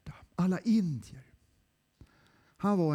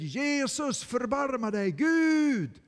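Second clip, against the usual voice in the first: loud desperate plea to God; anguished cry for mercy; 8 semitones higher, 5 dB louder, slower than usual. Acted. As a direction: cry out in distress. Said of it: "så han ropar ut sin nöd".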